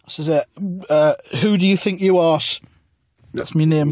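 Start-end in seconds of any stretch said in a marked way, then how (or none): 1.4-2.4 mock answer. Narrator answers.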